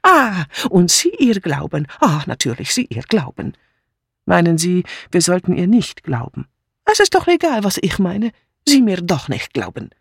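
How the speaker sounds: excitable broken German, pitch jumping; indignant, wounded outsider; foreign refugee maid. Acted. Mitzi protesting to the inspector, indignant and excitable.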